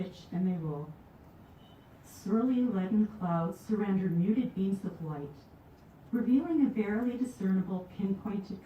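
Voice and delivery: deliberate, rhythmic nature-poem reading; poetry recital. Acted. Poet reads Lake Winnipeg poem to audience, measured recital. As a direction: recite it in measured phrases, settling at line ends.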